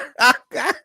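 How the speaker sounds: high burst of laughter at her own pun; high cackle. Real, not acted. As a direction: crack up, high and loud.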